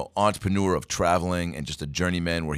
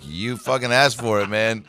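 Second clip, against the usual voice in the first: put-on annoyed kid; 5 semitones higher, 5 dB louder than usual. Kid delivering paper, annoyed.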